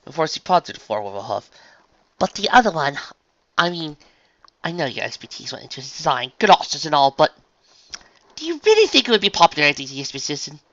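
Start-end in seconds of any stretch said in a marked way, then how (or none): 2.2-10.6 higher, ladylike hesitation; Rarity, tactful unicorn. Acted. Dressmaker doubts the friend's other outfit, tactful hesitation. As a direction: pick your words, then question pointedly.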